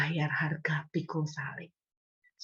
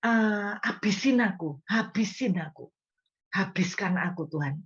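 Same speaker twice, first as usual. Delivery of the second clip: dramatic prayer. Retold or imitated. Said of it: "yang doanya kayak gini".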